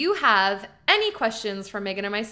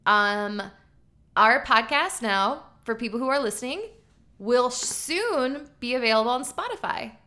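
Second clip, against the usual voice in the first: announcing big news. Real, not acted. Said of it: "I have some exciting news".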